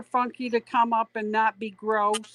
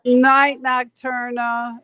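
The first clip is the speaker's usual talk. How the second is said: loud, bright goodnight call; 3 semitones higher, 5 dB louder, slower than usual. Real, not acted. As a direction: call it out across the room. Calling good night to viewer.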